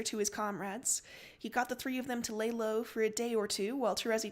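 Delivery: steady recap narration; story narration. Acted. Game master recapping the captain's day, narrating. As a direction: set the scene evenly.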